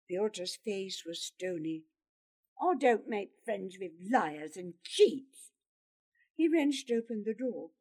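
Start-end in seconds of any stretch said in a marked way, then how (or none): 2.6-5.5 firm, indignant refusal; cold, contemptuous anger; angry rejection. Acted. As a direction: spit out the accusation. Pyotr angrily breaks off the friendship.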